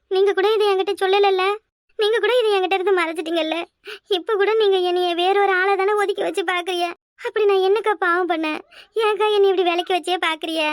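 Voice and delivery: hammed-up crying complaint; put-on tearful reproach. Daughter-in-law accuses sister-in-law of shutting her out, mock weeping. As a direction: plead as if wronged and weeping. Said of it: "இப்படி அழுதுகிட்டு உட்காந்துருக்க".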